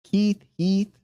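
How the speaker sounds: high, dismissive singsong; mocking repeat. Shown as a demonstration. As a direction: toss off both names mockingly. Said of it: "Heath, not Keith".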